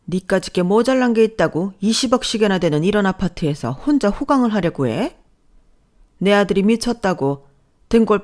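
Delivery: harsh mother-in-law tearing into her; scolding mother-in-law. Acted. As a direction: put the daughter-in-law in her place. Mother-in-law berates daughter-in-law.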